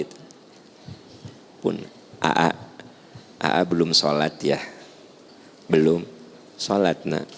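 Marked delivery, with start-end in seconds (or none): 1.6-7.3 gentle mother. Retold or imitated. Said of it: "Itu kaulan layyina".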